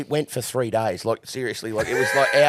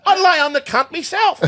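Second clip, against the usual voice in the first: laughing; 10 dB louder than usual. Real, not acted. Laughing while telling.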